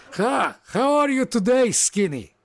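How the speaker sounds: big jolly orc shouting a welcome; booming orc greeting. Acted. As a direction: boom it out like a huge friendly orc. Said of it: "he's like".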